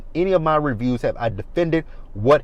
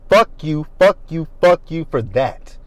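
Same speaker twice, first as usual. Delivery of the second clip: louder, punched fuck you; real angry cursing; 4 semitones higher, 4 dB louder than usual. Real, not acted. Angry vlogger cursing Dorit for ganging up, louder. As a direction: slam each fuck you at her.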